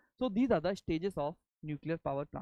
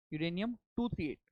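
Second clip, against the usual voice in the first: dictating. Shown as a demonstration. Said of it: "let me dictate now".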